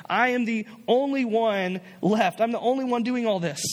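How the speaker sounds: self-pitying sigh. Retold or imitated. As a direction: sulk it out like it's all on you. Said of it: "anybody else feel like this".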